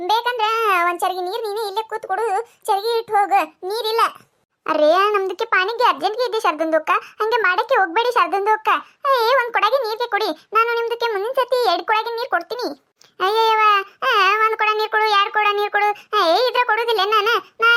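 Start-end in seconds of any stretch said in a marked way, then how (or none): 4.7-12.7 put-on Dakhni-accented Kannada. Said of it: "ಅದ್ರ ಭಾಷೆ ನಮಗ್ ಅರ್ಥ ಆಗುದಿಲ್ಲ".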